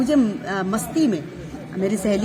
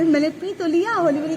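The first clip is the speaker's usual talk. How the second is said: laughing; 7 semitones higher than usual. Real, not acted. Laughing while retelling bhang story.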